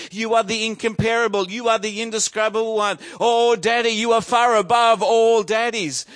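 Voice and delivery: cheeky boy laying on mock praise; gushing child worshipper. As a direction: pile on exaggerated adoration for Daddy. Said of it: "he bursts into song and goes".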